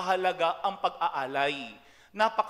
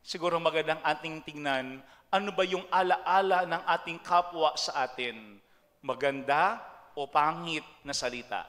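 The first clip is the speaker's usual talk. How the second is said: ordinary delivery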